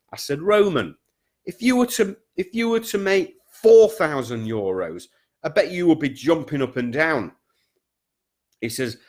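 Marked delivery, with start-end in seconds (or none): 0.4-7.3 teasing excitement. Retold or imitated. Telling Roman about a bigger fee, high playful teasing. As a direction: pitch jumps high, playful build-up.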